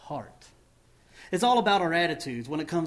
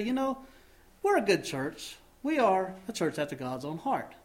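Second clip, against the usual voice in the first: pitched up, pleased with ourselves; mock self-satisfied; 3 semitones higher than usual. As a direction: pat yourself on the back in a higher voice. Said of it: "We could pat ourselves on the back".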